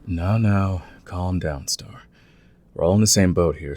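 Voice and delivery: soft, settling voice; soothing. Acted. Wolf calming Star after her outburst, soft and soothing. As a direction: ease her down gently.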